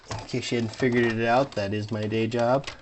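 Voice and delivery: deadpan sarcasm, close to his regular voice; sarcastic. Real, not acted. Vlogger joking to viewers about his day job, sarcastic. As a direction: state it as a brisk, facetious boast. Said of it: "That was my sarcasm voice".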